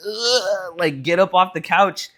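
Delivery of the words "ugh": imitating a toddler's effortful grunt; little kid straining to get up, mock baby groan. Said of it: "in her little toddler baby, like".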